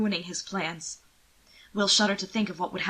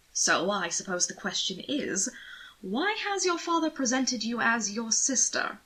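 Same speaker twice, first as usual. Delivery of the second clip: hushed start, then slow and higher; probing question; 3 semitones higher than usual. Acted. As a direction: lean in and pry, slowly. Anthony presses the question.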